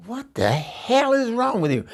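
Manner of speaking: high, loud angry yell; outraged shout. Retold or imitated. Eunice yells at the stranger, outraged. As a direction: bark it at him. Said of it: "I said".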